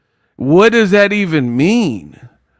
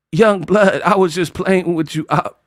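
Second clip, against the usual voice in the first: Terrence Howard impression; 3 semitones higher than usual. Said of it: "Terrence Howard movie".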